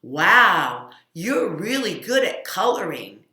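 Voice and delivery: compliment. Shown as a demonstration. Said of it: "tell people things like".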